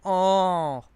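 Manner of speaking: a loud, high, startled "Oh"; drunk surprise. Retold or imitated. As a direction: blurt it out like a drunk caught off guard. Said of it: "the drunkard says".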